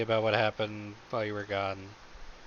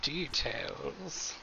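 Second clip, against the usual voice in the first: eager, slow and loud; 5 semitones higher, 4 dB louder, much slower than usual. Acted. Eager grandma character.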